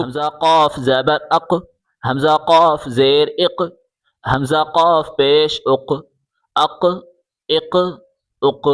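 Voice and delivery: "اق" with a bouncing, echoed q; qalqalah. Shown as a demonstration. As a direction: release the q of "اق" with a short bounce. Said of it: "یہاں قلقلہ ہوگا".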